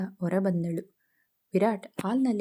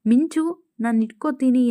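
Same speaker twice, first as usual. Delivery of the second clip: put-on called out high and loud, teasing the little girl; playful calling out; 3 semitones higher, 5 dB louder than usual. Nandini playing blindfold, calls out to Minchu, loud and playful. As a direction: sing out her name across the garden, playful and high.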